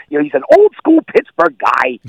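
put-on lightly doing a squeaky old-school Pittsburgh announcer; Myron Cope voice. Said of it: "And he talks like this".

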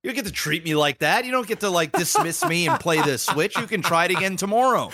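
high, mock-stern lecture; stern dad. Dad refusing to give back the Switch, mock-stern lecture. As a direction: lay down the law half-joking.

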